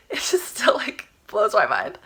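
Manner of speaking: real breath-light whisper of wonder; slow down and whisper, still astonished; amazed half-whisper. Real, not acted. Storyteller marvels at the money appearing, amazed whisper.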